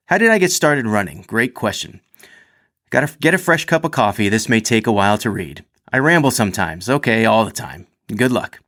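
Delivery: lively read-aloud of a personal story. A narrator's reading. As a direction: read it out like a chatty, self-mocking storyteller. Reads athlete's written story aloud.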